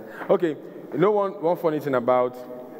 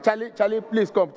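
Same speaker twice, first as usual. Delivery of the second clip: higher, pushed call for the waiter; exasperated call; 9 semitones higher than usual. Retold or imitated. Customer calls the waiter back over the wrong fish, higher and exasperated. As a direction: summon him back, fed up.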